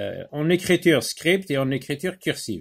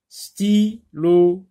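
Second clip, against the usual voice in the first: syllable by syllable; 4 semitones higher, 5 dB louder than usual. Shown as a demonstration. Teacher models words slowly.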